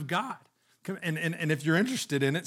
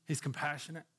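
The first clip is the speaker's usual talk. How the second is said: softly repeated; 2 semitones lower, 10 dB quieter, faster than usual. Acted. Preacher repeating it hushed to the congregation. Repeats compassionate, second time softer.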